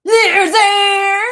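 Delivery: high, very loud drawn-out jeer; mocking president yell. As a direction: bellow it like a man-child, mockingly. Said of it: "That's him".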